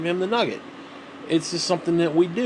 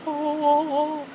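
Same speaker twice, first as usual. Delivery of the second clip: awed oh; 12 semitones higher than usual. Acted. Marvelling at the shiny kitchen.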